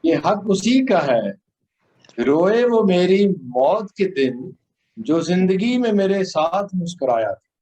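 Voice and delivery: measured, solemn ghazal delivery; poetry recitation. Acted.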